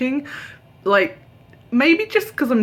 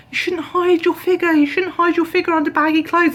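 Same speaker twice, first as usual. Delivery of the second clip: higher, pushy shop-assistant voice; mock saleswoman; 9 semitones higher, 3 dB louder than usual. Mocking the saleswoman who pressed tight clothes, higher. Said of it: "she just kept saying".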